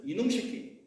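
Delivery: lightly voiced exorcist's rebuke; rebuking a demon. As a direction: cast the demon out, half acted. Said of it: "사탄 마귀를 쫓을 때 꾸짖었어요".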